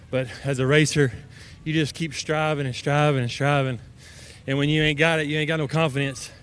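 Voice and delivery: breathless after the race; out of breath. Real, not acted. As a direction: talk between breaths. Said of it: "I'm sorry, I'm out of breath".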